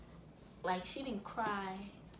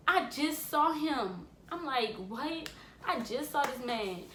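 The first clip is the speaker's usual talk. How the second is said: higher, mildly distraught disbelief; retold distress; 4 semitones higher, slower than usual. Niece hearing her uncle died, retold distress. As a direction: retell the shock of tearful news, without sobbing. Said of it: "I just bust out crying".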